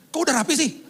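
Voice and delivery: high, puzzled rising question; surprised wife. Retold or imitated. Wife surprised at tidy room. (istri heran, nada naik tinggi)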